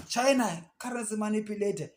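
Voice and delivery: high, loud pompous official voice; mock official pronouncement. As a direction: announce it like a self-important government. Mocking US government declaration.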